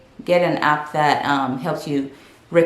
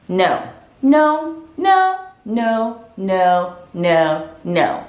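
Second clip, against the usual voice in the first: polite refusal; much slower than usual. Acted. Immigrant turning down eating out, firm but polite refusal. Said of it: "In the most polite way possible".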